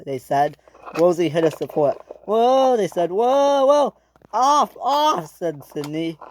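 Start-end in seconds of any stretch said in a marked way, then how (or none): 2.2-2.8 high, loud whoa; alarmed cry. Acted. Diesels as the support is hit, alarmed cry. 3.1-5.3 high-pitched panicky calls; urgent alarm. Acted. Sydney ordering them off the bridge, urgent alarm.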